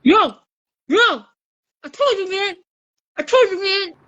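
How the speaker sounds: lightly voiced Jamaican robber, urgent; Jamaican accent. Robber urging his partner in a Jamaican accent. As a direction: Jamaican bank robber pushing for the loot. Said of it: "understand you Jamaicans".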